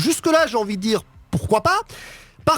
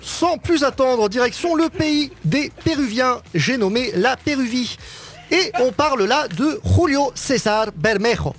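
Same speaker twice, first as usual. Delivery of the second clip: mock Spanish accent; 3 semitones higher, slower than usual. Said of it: "mon accent est impeccable".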